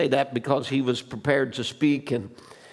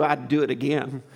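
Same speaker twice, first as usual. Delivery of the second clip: laughing. Real, not acted. Punchline, laughing while saying.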